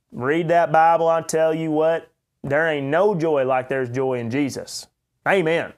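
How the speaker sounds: a light take on a big jolly preacher; jolly country preacher. Retold or imitated. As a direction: ham up a cheerful Oklahoma preacher. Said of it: "But you get the big jolly fellows".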